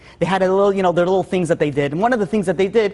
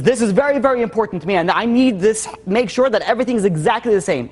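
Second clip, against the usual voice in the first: higher-pitched, mildly emphatic fussy husband; OCD-style insistence; 4 semitones higher than usual. Retold or imitated. Husband insisting on his prized possessions, mildly obsessive. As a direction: lightly voice a man insisting on exactness. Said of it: "almost O C D style".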